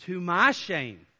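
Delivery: sarcastic to my shame, drawn out; mock shame. Shown as a demonstration. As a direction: say it as fake confession. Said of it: "it's biting sarcasm".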